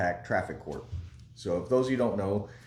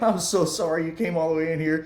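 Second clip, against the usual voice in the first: laughing apology; 7 semitones higher, 4 dB louder than usual. Retold or imitated. Clerk laughing at old warrant.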